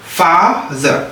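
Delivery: FATHER in two parts, long stressed FA; accent on FA. Shown as a demonstration. Teacher showing where the accent goes, stressed FA in FATHER. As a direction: stress and lengthen the first syllable of FATHER. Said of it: "Donc accent bi fii nga koy".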